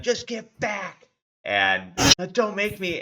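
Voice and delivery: high, scared, warding off with a sword; a terrified mother figure backing them off; frightened woman. Acted. Cornered woman holding a sword tells the party to get back, frightened. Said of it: "the lady's like".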